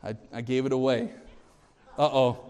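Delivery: put-on soft, small sorry-kid voice; imitating son Silas apologizing; sheepish child. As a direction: play the guilty little boy caught out. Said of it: "And Silas says".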